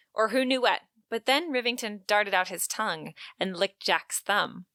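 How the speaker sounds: understated, intimate passage narration; quoted story reading. A narrator's reading. Host reading Jack and Rivington's charged moment, understated narration. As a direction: read the excerpt evenly, letting it soften. Reads a novel excerpt.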